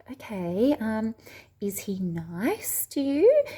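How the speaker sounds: put-on slow, careful question to a toddler; mildly reassuring parent voice; staying calm for child. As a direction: gently check in, drawing the words out. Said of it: "trying to stay calm for her".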